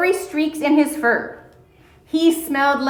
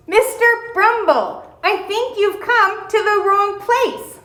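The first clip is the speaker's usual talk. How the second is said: put-on high, polite little girl; 9 semitones higher than usual. A narrator's reading. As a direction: gently correct the bear. Mona voiced in a story.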